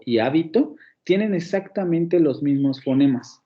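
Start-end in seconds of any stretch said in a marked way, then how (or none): 0.2-0.8 "hábito" stressed on HÁ, as HÁ-bi-to; stress on first syllable. Shown as a demonstration. Teacher contrasting words with identical phonemes, "hábito" stressed on HÁ. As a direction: antepenultimate stress in "hábito", HÁ leading. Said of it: "en la antepenúltima sílaba".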